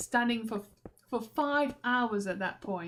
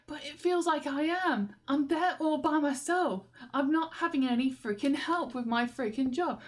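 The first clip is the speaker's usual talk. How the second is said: a louder, higher, exasperated vent; frustrated inner rant; 5 semitones higher, 3 dB louder than usual. Retold or imitated. Thinking back at the manager, frustrated and louder. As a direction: pour out the frustration you kept inside.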